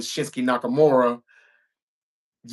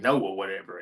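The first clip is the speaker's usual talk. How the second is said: much softer, a shrugging throwaway; mock nonchalant; 6 semitones lower, 6 dB quieter than usual. Recapping Charlotte brushing off Alexa, mock nonchalant. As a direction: toss it off like you couldn't care less. Mimicking Charlotte's dismissive reply.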